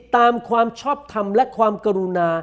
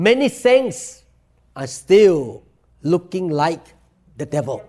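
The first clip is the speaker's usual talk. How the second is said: emphatic preaching; 2 semitones lower, 3 dB louder, much slower than usual. Real, not acted. Preacher raising voice in rebuke.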